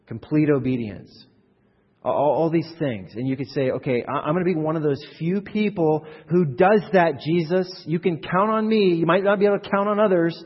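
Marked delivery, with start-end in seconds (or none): 3.7-10.4 loud, high, emphatic vow of loyalty; acted keen volunteer, pitched up and forceful; eager pledge. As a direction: pledge yourself boldly, voice raised. Voicing an overconfident volunteer disciple.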